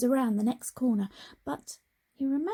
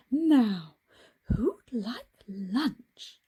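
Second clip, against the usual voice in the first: cheerful teacher; 2 semitones higher, 4 dB louder, much slower than usual. Acted. Miss Hoot offers lunch.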